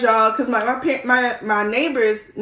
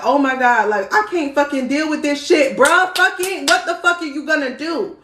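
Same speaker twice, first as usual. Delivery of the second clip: retold panic rant; 4 semitones higher than usual. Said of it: "I was like".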